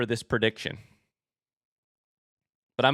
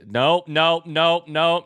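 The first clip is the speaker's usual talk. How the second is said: rapid loud repeated no's; 3 semitones higher, 5 dB louder, much slower than usual. Real, not acted. Streamer shutting down a chat request, loud no. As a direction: shout it down, no no no.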